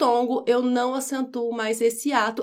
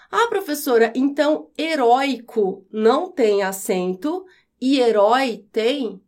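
student's question. Pretend. Student asks the teacher about heróico and herói, puzzled questioning. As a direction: ask like a pupil checking with the teacher.

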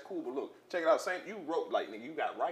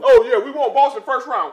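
much higher and louder, laughing as you parrot the boast; laughing mock quote; 9 semitones higher, 20 dB louder than usual. Friend mocking the Boston brag, laughing loudly.

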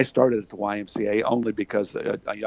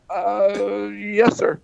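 higher, timid yes sir; meek kid; 9 semitones higher, much slower than usual. Retold or imitated. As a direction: answer like a cowed teenager. Cowed kid answers coach.

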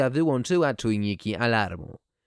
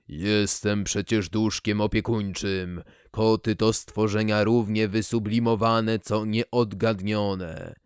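put-on old speech synthesizer. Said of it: "włączyłem syntezator mowy".

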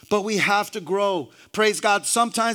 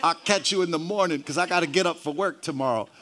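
softer, lower, hurried excuse; mock sleepy brush-off; 5 semitones lower, 6 dB quieter, faster than usual. Reluctant believer puts Jesus off till morning, softly dismissive. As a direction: act out putting God off, quietly and quickly. Acted excuse to God at night.

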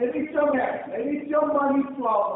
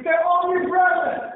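louder, pushing the crowd to answer; preacher demanding a stronger response, louder; louder repeat call; 3 semitones higher than usual. Shown as a demonstration. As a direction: rouse them to say it again. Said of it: "That was pretty weak".

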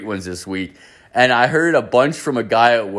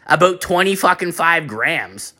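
higher, hesitant stoner voice with a sigh; coworker impression; 5 semitones higher than usual. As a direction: fumble toward an answer as the coworker. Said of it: "he talks exactly how I'm talking right now".

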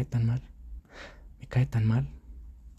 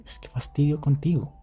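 mildly higher, irritated scolding; annoyed girlfriend; 5 semitones higher than usual. Retold or imitated. Girlfriend scolding him for feet on table, mock annoyed. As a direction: nag him with mild disgust. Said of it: "Me hablaba así".

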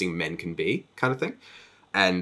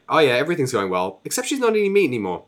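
much higher, fast sing-song tattling; fake cheerful husband; 6 semitones higher, faster than usual. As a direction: breezily drop the news like a snitch. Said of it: "and just is like".

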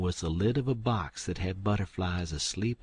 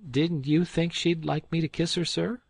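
higher, louder plea; appealing; 9 semitones higher, 5 dB louder than usual. Acted. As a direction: appeal to the old man. Tom appeals to old gentleman.

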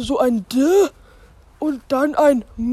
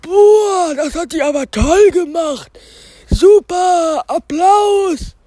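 louder, gushing admiration; excited; 3 semitones higher, 5 dB louder than usual. Acted. Spike gushes loudly over the new girl. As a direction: cheer her on, smitten.

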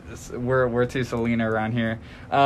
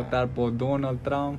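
put-on Venezuelan accent; 2 semitones higher than usual. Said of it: "that was my Venezuelan accent".

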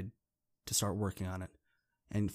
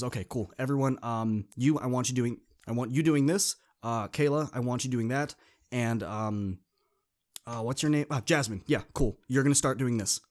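louder, pushy directing of the group; bossy take-charge kid; 4 dB louder than usual. Retold or imitated. Dean taking over the group, bossy and loud. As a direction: hand out orders to everyone.

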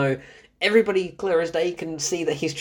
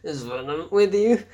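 mock raspy actress impression; throaty raspy voice. Reviewer repeating an actress's badly said line, throaty rasp. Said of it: "like, really throaty, raspy voice".

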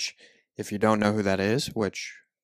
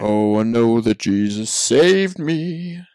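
slow, loud, raspy singing voice; 8 dB louder, slower than usual. Shown as a demonstration. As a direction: project the rasp slowly. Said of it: "I'm not projecting".

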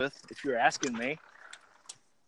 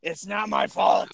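slow shouted catchphrase with stress on my; Snitsky shout; 4 semitones higher, slower than usual. Retold or imitated. Doing Snitsky for the cohosts, slow shout. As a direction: yell it out like Snitsky.

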